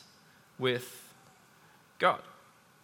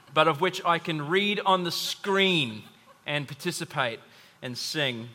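laughing through the words. Real, not acted. Pastor joking about carols, laughing as he talks. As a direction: chuckle at yourself while admitting it.

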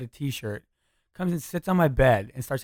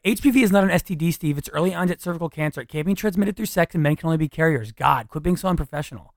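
higher, louder, prim and lecturing; the girl's voice; 4 semitones higher, 5 dB louder than usual. Shown as a demonstration. Girlfriend scolding her boyfriend in a sketch, prim and lecturing. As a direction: stand up straight and scold him primly. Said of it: "every time I would do the voice of the girl".

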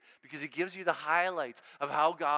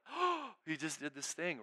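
mock astonishment; 4 dB quieter than usual. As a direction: play an onlooker caught by surprise. Mimics shocked onlookers in the temple.

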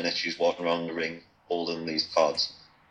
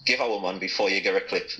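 Geordie accent. Shown as a demonstration. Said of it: "amp up your accent".

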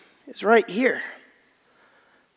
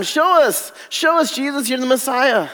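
higher, taunting show us; mocking demand; 5 semitones higher than usual. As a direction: jeer at Jesus, demanding. Mocking crowd demanding a sign.

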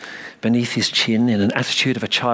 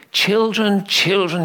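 vicar calling; 8 semitones higher, slower than usual. A narrator's reading. Vicar calling excited children to order, raised voice. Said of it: "he said".

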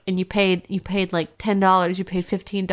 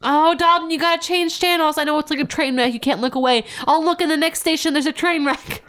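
high mock pleading; 8 semitones higher than usual. Begging him to change channels.

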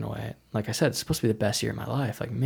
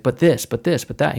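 mock flustered protest, slightly raised pitch; retold shocked stammering; 3 semitones higher, 3 dB louder than usual. Surgeon looking at the papers, mildly shocked. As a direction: imitate a shocked surgeon sputtering objections. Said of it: "he was so totally shocked".

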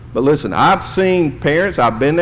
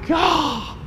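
exasperated God; 5 dB quieter than usual. Retold or imitated. Preacher recalls horror at puppy.

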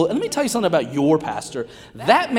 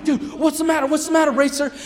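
higher, worried dad voice; dad checking on his screaming toddler; concerned dad; 11 semitones higher than usual. Retold or imitated. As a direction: ask your upset kid what's wrong. Dad asks screaming son.

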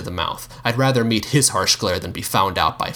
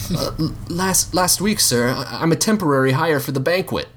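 nervous stammer; 7 semitones higher than usual. Acted.

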